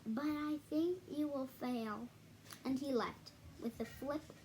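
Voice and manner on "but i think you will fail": sneer. Acted. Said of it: "sneered the bird".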